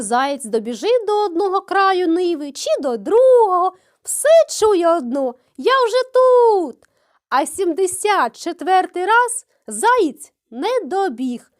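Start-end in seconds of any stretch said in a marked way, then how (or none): 5.6-6.8 higher, slow, louder; smug call. A narrator's reading. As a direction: taunt him yet again. Hare hears it again.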